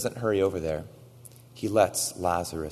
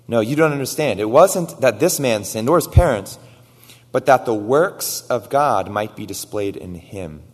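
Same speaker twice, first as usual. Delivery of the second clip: Jesus answering; 3 semitones higher, 9 dB louder than usual. Retold or imitated. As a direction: correct them with conviction. Jesus answers, preached loud.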